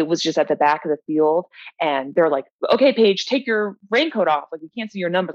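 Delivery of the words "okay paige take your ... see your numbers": race official. Retold or imitated. Race officials on the microphone telling Paige to remove her raincoat, lightly mock announcement. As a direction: lightly imitate an official calling over the microphone. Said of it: "the officials from the stage on the microphone".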